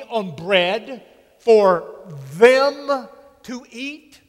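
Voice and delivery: mock-incredulous, slowing at the end; sarcastic disciples. Disciples scoff at Jesus' request, sarcastic. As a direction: scoff as if the idea is absurd. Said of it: "Did you notice the sarcasm?".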